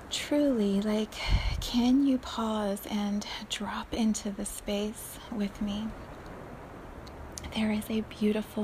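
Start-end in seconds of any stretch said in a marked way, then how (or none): 1.6-5.9 slow whispered invitation; guided meditation. Acted. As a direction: coax them gently into the space.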